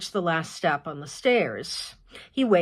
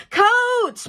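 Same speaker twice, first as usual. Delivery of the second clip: loud, much higher call across the house; 7 dB louder than usual. Acted. Mother calling to her kids to get coats, loud call. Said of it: "then calls out".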